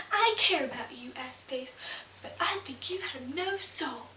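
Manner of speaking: exasperated acted confession, punched at the start; imagined outburst. Woman's imagined confession to her lover, bursting out. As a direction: burst out loudly on the first words. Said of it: "She never bursts out and says".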